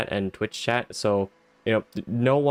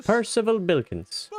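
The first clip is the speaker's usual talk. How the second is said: proud self-introduction; 9 semitones higher, slower than usual. Acted. Introducing himself as hero.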